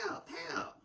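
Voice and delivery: high, breathy mock call for help; imitated cry for help. Child calling from the playhouse, high imitated plea.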